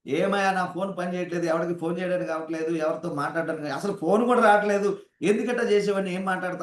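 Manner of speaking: mild mock telling-off, rising in pitch; mock angry complaint. Customer complaining at the phone company showroom, mildly indignant. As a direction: act out an irate customer, half-hearted. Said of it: "వాళ్ళ దగ్గరికి వెళ్ళి గట్టిగా అరిచి మాట్లాడగలమా".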